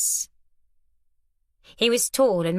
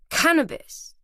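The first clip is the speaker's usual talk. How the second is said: higher, awed exclamation; gasped; 9 semitones higher than usual. A narrator's reading. Boy stunned at the hash his friend shows, gasping. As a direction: breathe it out in wonder. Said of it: "he gasped".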